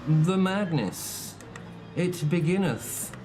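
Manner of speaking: slow, grand announcer voice; hammed-up announcer. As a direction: announce the race start with drama. Announces race start.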